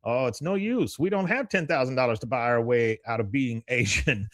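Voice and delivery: high-pitched complaining husband; Khan. Retold or imitated. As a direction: lament it in a high cartoon voice. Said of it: "He goes".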